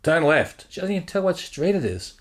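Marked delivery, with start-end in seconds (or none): 0.0-0.7 put-on blunt Australian accent, louder; imitating a rough Aussie sat-nav voice. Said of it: "Aussie chick ... she's rough".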